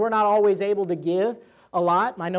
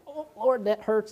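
mild mock wince, starting high; pained reluctance; 3 semitones higher than usual. Giver complaining to God about the cost, pained. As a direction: act out giving that hurts. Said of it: "it's like pulling teeth".

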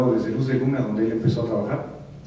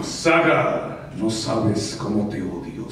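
villain voice; 3 semitones lower, much slower than usual. Retold or imitated. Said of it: "malo, duro y risa malvada".

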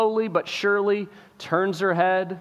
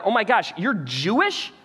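shocked king; 6 semitones higher than usual. Retold or imitated. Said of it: "he's finally putting together".

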